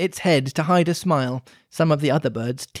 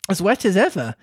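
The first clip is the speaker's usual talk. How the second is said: melancholy; 3 semitones higher than usual. Acted. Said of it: "said Alice in a melancholy tone".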